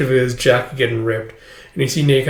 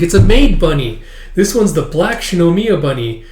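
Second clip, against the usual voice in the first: put-on higher child voice; proud little girl; 4 semitones higher, 4 dB louder than usual. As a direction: show off the toy like a kid. Child shows off her plushie.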